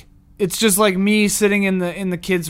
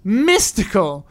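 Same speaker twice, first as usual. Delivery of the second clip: drawn-out oracle read; slower than usual. Shown as a demonstration. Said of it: "it's the same".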